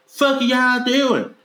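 high, slow, exasperated coach bark; mock gym coach. PE coach catching the bullies, slow exasperated yell. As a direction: draw it out like a fed-up gym teacher. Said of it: "and he's like".

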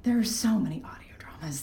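whispered in awe. Real, not acted. Guest marvelling at all the audio dramas, in a whisper. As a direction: breathe it like a secret. Awed aside about abundance.

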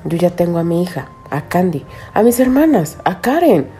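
exasperated listing, building in pitch; mildly fed-up pleading; annoyed protest. Acted. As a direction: argue the case with rising exasperation. Annoyed father argues for a boy.

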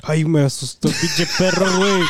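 high, loud words through real laughter; laughing after a scare. Real, not acted. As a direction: laugh off the fright while you talk. Friend jumped by scare, laughing.

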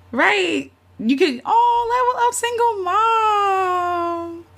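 choked up, crying out the name. Real, not acted. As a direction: voice breaks high and slow into tears. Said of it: "I'ma cry now".

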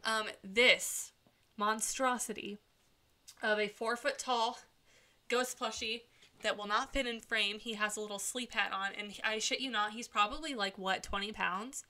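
distant, off-mic voice; speaking away from the microphone; turned away from mic. Real, not acted. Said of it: "I'm backing away from the microphone".

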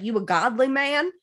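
lightly imitated Southern accent. Brother questioning Kyle's faith, imitated Southern accent. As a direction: ask it with a mock Southern twang. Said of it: "they don't even have accents like this".

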